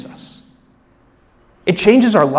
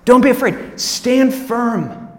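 firm command; 6 semitones higher, 5 dB louder, much slower than usual. Shown as a demonstration. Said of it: "It's "Don't be afraid".

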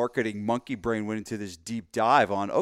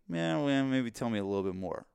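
reluctantly half-interested; skeptical. Acted. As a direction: hedge like a wary customer.

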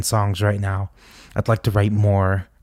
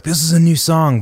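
raised, louder announcing of a new song; eager announcement; 6 semitones higher, 4 dB louder than usual. Retold or imitated. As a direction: announce it proudly to the crowd. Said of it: "I was like".

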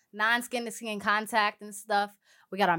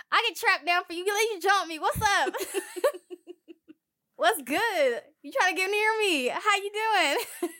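high, laughing flirt; flirty pickup voice; 8 semitones higher than usual. Pretend. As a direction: tease them like a smooth flirt. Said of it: "I'm like".

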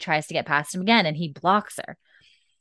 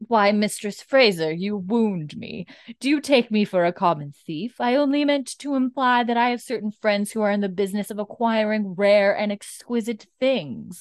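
acted Wiley; 2 semitones higher than usual. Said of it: "And he's like".

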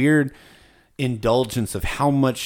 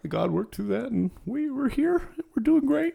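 much higher, mock-sweet preacher voice; mocking the preachy teacher; 14 semitones higher than usual. Mocking the Bible college teacher's redemption story, high mock-sweet voice. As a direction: ham up the smug teacher's cheerful redemption line.

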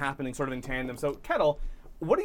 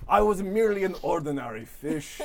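lightly voiced, grandiose storybook fish; pompous fish character. GM voices Mustache Fish monologue.

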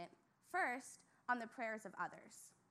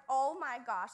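mock whine; 6 dB louder, slower than usual. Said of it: "I wimp around the house".

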